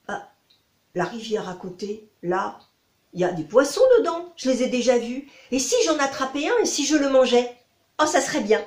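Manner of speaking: petit renard excité par les poissons; le renard qui rêve de poissons, plus fort; renard affamé. Acted. Fox thinking aloud, excited. (renard excité, voix plus forte)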